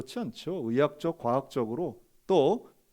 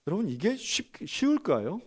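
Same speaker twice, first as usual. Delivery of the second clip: ordinary talk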